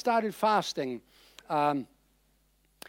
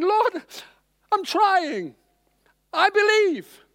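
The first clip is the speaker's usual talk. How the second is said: high, loud, pleading cry; desperate plea; 12 semitones higher, 5 dB louder, much slower than usual. Retold or imitated. Preacher voicing the father of the suffering boy, desperate high plea. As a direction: beg like a father at the end of his rope. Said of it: "It's like he's saying".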